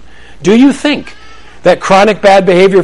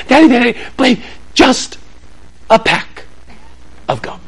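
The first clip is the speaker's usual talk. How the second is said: put-on pleading kid; 6 semitones higher, 4 dB quieter than usual. Kids pleading.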